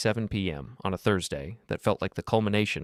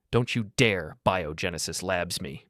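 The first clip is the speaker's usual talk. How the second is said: sharp with fury; slower than usual. Acted. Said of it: "sharp with panic and fury".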